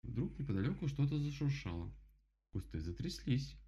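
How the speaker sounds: ordinary delivery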